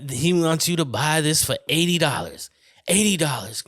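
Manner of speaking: lightly voiced Southern TV preacher; Southern televangelist. Mock preacher naming his price, light Southern televangelist voice. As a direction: sell it with a touch of Southern preacher. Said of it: "some Southern motherfuckers too".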